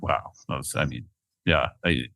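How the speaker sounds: soft and low, moved to tears; a quiet voice close to tears; tearing up. Real, not acted. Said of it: "I'm tearing up".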